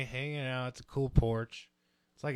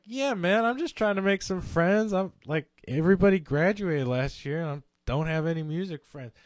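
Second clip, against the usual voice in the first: higher, louder keen yeah man; eager reply; 4 semitones higher, 7 dB louder than usual. Retold or imitated. Stoned guest eagerly answers the partygoer, higher and louder. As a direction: overshare trying to make friends.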